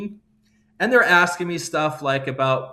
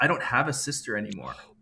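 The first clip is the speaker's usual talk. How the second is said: soft, hushed, barely audible half-whisper; 3 semitones lower, 6 dB quieter than usual. Retelling what a friend leaned in and said to the speaker, retelling a half-whisper. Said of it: "he whispers".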